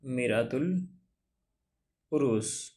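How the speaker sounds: drawn out, each syllable slow; teacher dictating the name slowly; slow dictation. Shown as a demonstration. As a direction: spell the title out slowly for writing. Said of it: "اس کا نام ہے".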